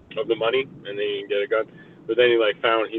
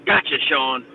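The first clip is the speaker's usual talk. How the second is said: excited gotcha; 5 semitones higher than usual. Retold or imitated. Teasing a friend over the flag, high triumphant gotcha. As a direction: crow it out like you caught him. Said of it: "Yeah, I'll be like".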